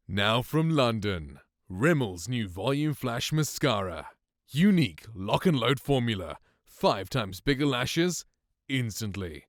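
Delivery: punchy, measured ad voice-over; commercial read. Acted. Testing the mic with an ad script, commercial read. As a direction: sell it like a mascara advert. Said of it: "I will do a commercial sort of read".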